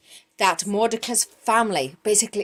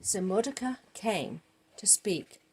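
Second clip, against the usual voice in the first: soft unvoiced whisper; 4 semitones lower, 12 dB quieter than usual. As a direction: whisper it to the audience. Whispered narration.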